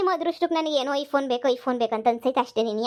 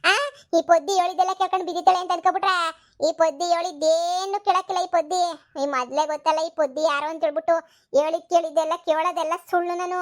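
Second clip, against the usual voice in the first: screaming in a huff; 3 semitones higher than usual. Acted. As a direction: rant like the offended sister-in-law. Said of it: "ಅವ್ಳು ಯಾವಾಗೂ ಕಿರುಚ್ತಾನೆ ಇರ್ತಾಳೆ".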